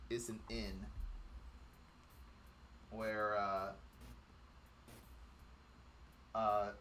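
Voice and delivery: low, soft, halting narration; hushed storyteller with long pauses; game master scene setting. A narrator's reading. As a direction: describe the city quietly, feeling your way.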